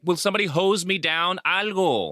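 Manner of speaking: high, fast mock cry for help; hammed-up high plea to be hosed down. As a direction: squeak it out like a panicked guy. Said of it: "be like".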